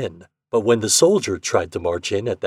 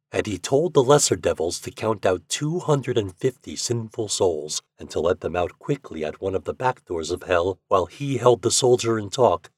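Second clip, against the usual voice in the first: ordinary delivery, nothing marked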